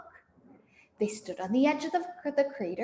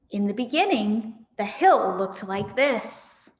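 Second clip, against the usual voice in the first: put-on lively read-aloud for children; story narration; 3 dB louder than usual. A narrator's reading. The speaker reading Fantastic Mister Fox to her listeners. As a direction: tell it like a bedtime story.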